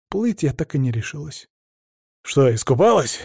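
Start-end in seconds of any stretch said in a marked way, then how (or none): 2.2-3.2 snide. Acted. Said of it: "ехидно спросил муж".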